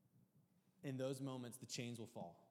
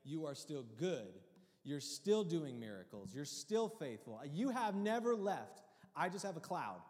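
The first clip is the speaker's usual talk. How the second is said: prayer to the Lord; 3 semitones higher, 4 dB louder than usual. Retold or imitated. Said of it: "I say".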